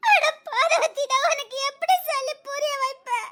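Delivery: high, tearful plea; weeping. Acted. Woman to her friend Parvathi, weeping. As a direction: sob out the helplessness.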